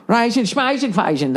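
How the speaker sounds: lightly voiced mock Swedish babble; mock Swedish gibberish. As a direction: parody how Swedish sounds to an outsider. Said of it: "That's what it always sounds like to me".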